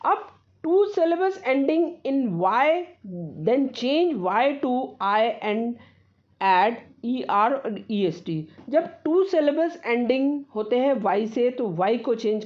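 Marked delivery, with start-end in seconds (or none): 0.1-8.4 slow, careful reading of a rule; slow dictation. Acted. Teacher dictating a grammar rule to students, slow and careful. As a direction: read the rule slowly so students can copy it.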